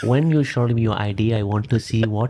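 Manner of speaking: lightly put-on Indian accent; playful Indian accent, teasing. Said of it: "whole podcast in Indian accent".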